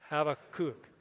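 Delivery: "Habakkuk" as hah-vah-KOOK, unhurried; last-syllable stress. Shown as a demonstration. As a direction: land on the long KOOK in "Habakkuk". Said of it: "emphasize the last syll".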